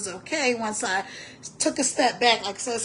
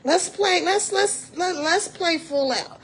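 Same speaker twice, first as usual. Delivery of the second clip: rallying call; 7 semitones higher than usual. Real, not acted. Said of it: "rallying viewers".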